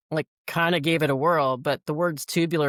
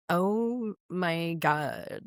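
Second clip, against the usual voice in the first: mock sing-song; 2 semitones higher, 4 dB quieter, much slower than usual. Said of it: "sing-songy".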